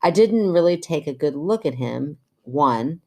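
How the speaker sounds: measured podcast story reading; even-paced reader's voice; reading letter aloud. Acted. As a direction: read a listener's letter out clearly. Reads listener's letter aloud.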